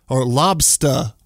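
"lobster" said slowly as "lobstah", dropping the r, in a lightly done Maine accent. Shown as a demonstration. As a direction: stretch "lobster" like a New Englander, no r at the end. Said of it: "they really play into the accent".

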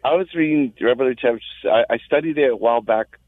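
choppy phone line cutting out; caller's signal dropping in and out; radio breaking up. Real, not acted. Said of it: "your phone, your phone is".

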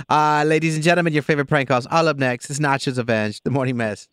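upbeat announcer voice; radio host intro. Acted. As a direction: hype up the prank call segment.

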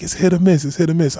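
lightly voiced grandma shrugging it off; imitating grandma. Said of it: "She was like".

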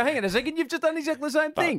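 mock indignant reply. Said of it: "we just go".

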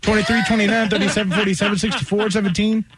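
fast numbers rattled off in one breath; auctioneer rattle. Acted. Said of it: "You sounded like an auctioneer".

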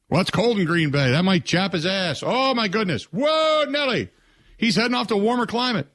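high hammed-up worried fan; breathless mock alarm, pitched high; mock panic. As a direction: overplay the fretting sports fan. Mock fan panic over Rodgers.

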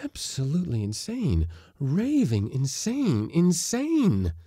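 high, building distress; alarmed self-diagnosis, rising in pitch; mounting panic. A narrator's reading. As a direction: let each word climb toward hysteria. Man fearing he has gone mad.

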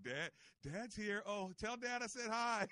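high, slow, offhand sing-song; mock indifferent sons. Host mimicking his sons on the phone, high and offhand. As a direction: toss it off like a bored son. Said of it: "They're like".

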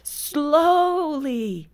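high, stretched-out mock yell; drawn-out yell. Tour guide interrupting the women as they start to read, drawn-out yell. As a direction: call it out high, dragging each word. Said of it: "he would yell out as we started to read".

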